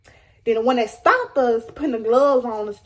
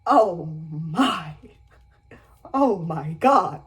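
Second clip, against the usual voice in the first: dramatic crybaby; 7 semitones lower, much slower than usual. Retold or imitated. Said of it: "I'm a crybaby and I'm dramatic".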